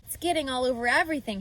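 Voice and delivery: quick, mild mock shout; a child rattling off a complaint fast; Fern's fast, lightly shouted complaint. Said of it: "shouted Fern".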